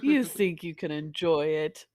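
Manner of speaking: menacing gloating villain, rising loud. Pretend. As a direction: gloat like an evil overlord. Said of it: "And Oregon's like".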